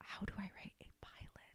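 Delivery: very quiet, hushed, breathy whisper. Retelling own question to someone giving advice, whispering. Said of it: "we're back to whispering".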